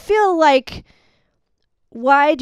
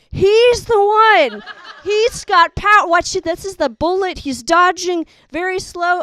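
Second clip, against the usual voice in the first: movie voice; 7 semitones higher, 6 dB louder than usual. Retold or imitated. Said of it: "they'd be like".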